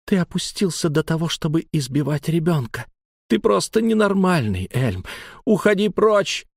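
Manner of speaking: high-pitched indignation building to a cry; woman's outraged outburst; angry reproach. A narrator's reading. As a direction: scold him, climbing to a dismissal. Лайла гневно прогоняет Эльма.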